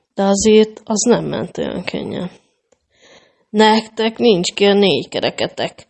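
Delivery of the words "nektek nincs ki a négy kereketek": grumbled gruffly, muttering grumpily. The robber chief answers the travelers' attempt to convince him, grumbling. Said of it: "dörmögte a rabló vezér".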